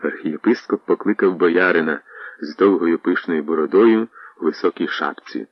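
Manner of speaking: plain reading voice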